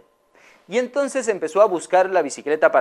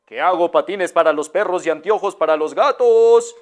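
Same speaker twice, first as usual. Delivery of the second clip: vendor repeats his call, louder; repeated louder. Acted. Vendor repeats his cry louder for the lady. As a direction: say it again for someone who didn't hear. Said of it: "¿Qué, qué?".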